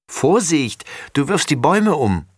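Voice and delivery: high-pitched warning cry; calling out. A narrator's reading. Girl warning her brother about the trees, calling out. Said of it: "ruft Laura".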